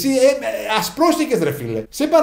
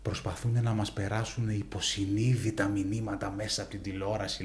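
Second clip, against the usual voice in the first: put-on old neighbor voice; 10 semitones lower, 13 dB quieter than usual. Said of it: "λέει".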